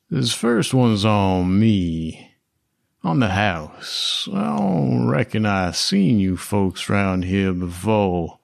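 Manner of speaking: slow, easy cowboy host voice; cowboy drawl. Acted. A slow cowboy welcoming new folks to his table. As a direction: lean back and drawl like a rancher offering drinks.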